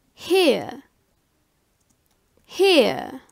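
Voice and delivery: German "here" with a long ee, as in "hee". Shown as a demonstration. Teacher showing learners the EA sound, German long-ee "here". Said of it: "is pronounced like E".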